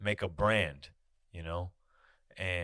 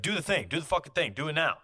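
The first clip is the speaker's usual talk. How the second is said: higher, pushy repeated order; mock impatient demand; 8 semitones higher, 5 dB louder than usual. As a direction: hammer the order home, pitched up. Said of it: "it's always like".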